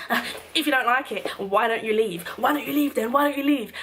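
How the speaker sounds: mocking the skinny bouncer's provoking tone; aggressive bouncer. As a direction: goad her to leave. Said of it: "you got bare aggressive".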